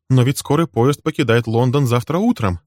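sudden high alarmed outburst; high, startled exclamation; exclaiming. Acted. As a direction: blurt it out in shock. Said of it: "воскликнула она".

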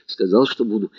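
ordinary delivery, nothing marked

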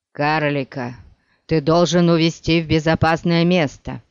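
urgent, forceful insistence; strange force in voice. Acted. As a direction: press it with sudden inner strength. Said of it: "со странной силой в голосе".

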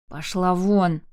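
loud barked order; yell. Acted. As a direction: roar at the child. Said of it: "заорал Марк". (рявкнуть)

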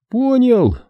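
sharp, high quick answer; curt reply. A narrator's reading. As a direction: snap back an answer. Глебыч отвечает коротко. (резкий ответ)

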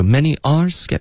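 "are" set apart from "many" for emphasis; no y link, start "are" afresh and stress it; break before ARE. Shown as a demonstration. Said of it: "他就是顿了一下". (在"are"前顿一下，强调"are")

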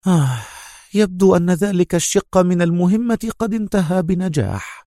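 high sigh of relief; relieved. A narrator's reading. Mona hears part of the mission succeeded, relieved. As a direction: let relief lift the voice high. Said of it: "ابتسمت منى في ارتياح وهي تقول".

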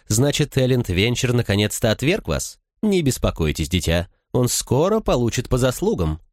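a hint of a sly gossiping noblewoman; lady's voice. A narrator's reading.

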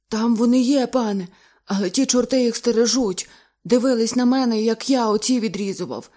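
high, loud frightened telling. Acted. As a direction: speak in horror. Diver, hair bristling with fear.

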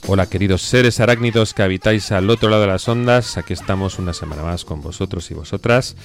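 sore, husky throat; hoarse voice. Real, not acted. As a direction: speak through a scratchy sore throat. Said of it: "Yo con voz cazallera".

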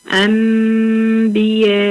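أنبياء drawn out slowly, the نون turned into a nasal hidden ميم; slow tajweed recitation. Shown as a demonstration. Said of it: "زي كلمة".

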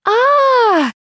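long high-pitched scream from upstairs; sudden terrified woman's scream. A narrator's reading. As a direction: shriek in terror, loud and high. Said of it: "крик".

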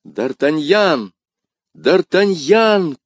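high, long-drawn desperate call; crying out. A narrator's reading. Dying woman calls for her beloved, desperate cry. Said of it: "крикнула госпожа Бонасье".

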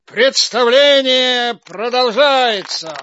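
grand showman announcing the next act; booming circus ringmaster. Acted. Ringmaster addressing the audience.

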